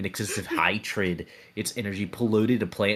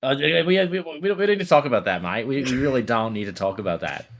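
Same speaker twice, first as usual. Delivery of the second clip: flustered; 4 semitones higher, 4 dB louder than usual. Acted. Flustered denial in character.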